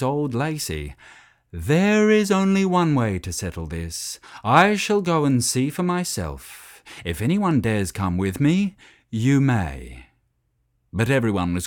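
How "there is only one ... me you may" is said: a touch higher and louder, ringing out to settle it; calm authority of an old cow; clear, wise voice. Acted. Wise old Lacey calling over the quarrelling herd, clear and commanding. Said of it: "a clear voice rang out".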